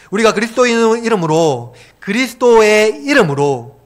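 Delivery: emphatic preacher's challenge; challenging preaching. Real, not acted. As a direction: press the congregation with rising force. Challenges congregation at full force.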